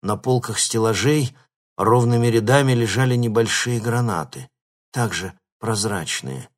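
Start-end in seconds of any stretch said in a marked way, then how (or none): none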